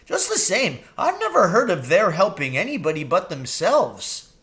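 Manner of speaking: high, quick crow voice; eager young crow. A narrator's reading. Jeremy the crow urging Mrs Frisby home, high and anxious.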